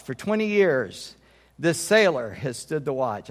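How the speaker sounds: measured, solemn poem reading with weighted pauses; poem recitation. Acted. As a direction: recite it as at a Navy retirement ceremony. Reads retirement poem aloud.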